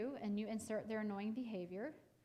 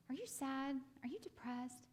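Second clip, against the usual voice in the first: anxious, pleading questions, pitch a bit higher; mock pitiful parent; 4 semitones higher than usual. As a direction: imitate a worried parent fishing for feelings. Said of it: "Let's not be that pitiful".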